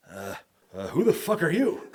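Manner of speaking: high-pitched imitation of a blunt boss; imitating promoter. Promoter confronting the new wrestler, high mock-gruff imitation. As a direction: play the promoter demanding who you are. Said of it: "he's just like".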